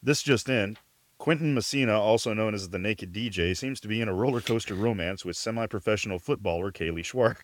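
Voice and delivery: newsreader breaking-news delivery; playful gossip-news read; mock news bulletin.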